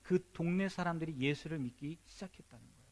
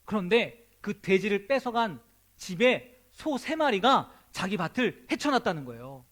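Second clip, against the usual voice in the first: ordinary talk, nothing marked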